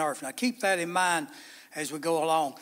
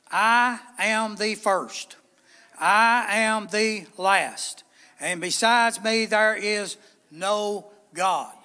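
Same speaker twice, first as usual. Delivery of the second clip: slow, weighty, each phrase spaced out; measured booming scripture; solemn proclamation; slower than usual. Acted. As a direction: declare it as the voice of God, deliberately. Proclaiming God's words slowly.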